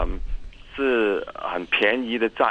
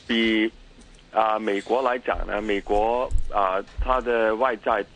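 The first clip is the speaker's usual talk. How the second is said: Mandarin with a heavy Cantonese accent. Real, not acted. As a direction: Cantonese speaker talking Mandarin. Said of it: "我的廣-，普通話唔好".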